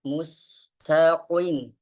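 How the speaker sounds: mustaqim with a firm qaf that is not too heavy, slow; light qaf. Shown as a demonstration. Teacher demonstrates the correct qaf to the class. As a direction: say the qaf in mustaqim without heaviness. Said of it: "nggak boleh".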